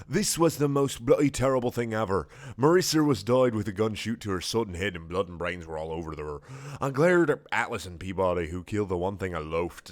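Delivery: badly faked British narration; bad British accent, put on for comedy; terrible British accent. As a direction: read it in a hammy British accent. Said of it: "read this in a terrible British accent".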